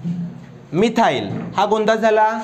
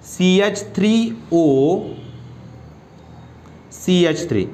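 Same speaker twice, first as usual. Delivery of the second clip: slow dictation; much slower than usual. Shown as a demonstration. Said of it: "याच्यातलं example शेवटचं".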